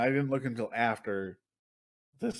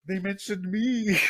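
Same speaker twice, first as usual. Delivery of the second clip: gasping, drawn-out higher mock delight; mock thrilled; 6 semitones higher, slower than usual. Fans hearing their shout-out, mock thrilled. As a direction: gush like a starstruck fan.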